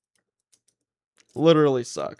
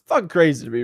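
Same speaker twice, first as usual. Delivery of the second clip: laughing it out, a bit louder; 3 semitones higher, 6 dB louder than usual. Real, not acted. Streamer repeating his outrage to chat, laughing. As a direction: say it through a laugh.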